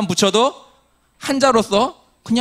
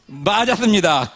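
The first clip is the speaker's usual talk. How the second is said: usual speaking voice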